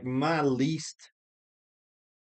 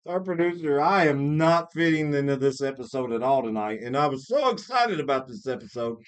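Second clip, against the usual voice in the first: talking through a mouthful of food; chewing while talking, mouth full; 2 semitones higher than usual. Real, not acted. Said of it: "I'm talking with my mouth full".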